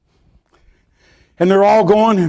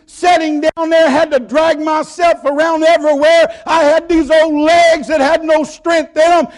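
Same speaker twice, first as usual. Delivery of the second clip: happy boast; 5 semitones higher than usual. Retold or imitated. Healed lame man boasting.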